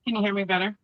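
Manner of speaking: muffled, distant headset audio; like calling from a tunnel; sounds like in a tunnel. Real, not acted. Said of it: "you sound like you're in a tunnel".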